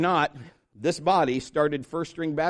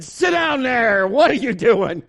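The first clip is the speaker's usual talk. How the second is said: coach scolding; 4 semitones higher, 5 dB louder than usual. Retold or imitated. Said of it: "The coach said".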